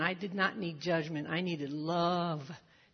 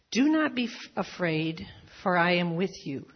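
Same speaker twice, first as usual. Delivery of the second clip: emphatic repeat; 7 dB louder than usual. Shown as a demonstration. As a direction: ring it out the second time.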